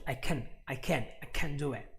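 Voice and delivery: "can" cut short with a tiny A. Shown as a demonstration. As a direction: keep the A in "can" brief and light. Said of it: "is very short".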